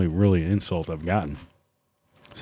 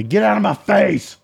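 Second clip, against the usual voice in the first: sharp, much higher blurt; direct brush-off; 11 semitones higher than usual. Retold or imitated. To a pestering coworker, blunt high blurt. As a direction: shove him off in one blunt line. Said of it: "that direct".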